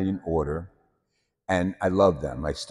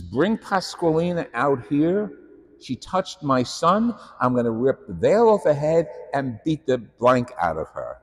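furious mother; 6 semitones higher, 4 dB louder than usual. Retold or imitated. Mother at the convent door, high furious shouting. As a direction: demand the nun come out, pitch way up. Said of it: "She went berserk".

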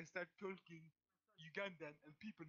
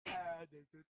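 short demo of a Ugandan accent; put-on Ugandan accent; 4 dB louder, much slower than usual. Shown as a demonstration. Showing friends the accent, Ugandan accent. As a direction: show off a mock Ugandan accent. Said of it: "Ugandan accent".

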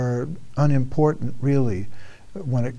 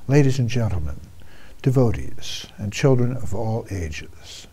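lucha libre announcer. Acted. Multilingual grand show greeting.

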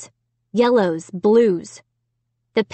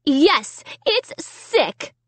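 disgusted agreement; 7 semitones higher, much slower than usual. A narrator's reading. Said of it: "Sarah repeated".

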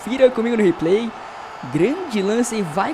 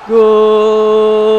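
goal shout; 9 dB louder than usual. Real, not acted.

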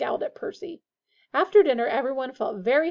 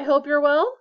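louder, higher pompous greeting; 5 semitones higher, 8 dB louder than usual. A narrator's reading. Percy greets Harry while shaking hands, pompous. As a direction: play it self-important and over-formal. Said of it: "Percy pompously".

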